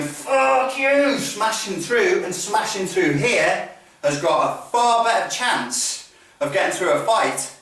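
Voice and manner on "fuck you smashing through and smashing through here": high, drawn-out curse, slowing into the action; aggressive swearing. Shown as a demonstration. Instructor showing a committed fighter's repetition, aggressive swearing. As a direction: grind out the words with violent intent. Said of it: "somebody who's spent time, repetition, going".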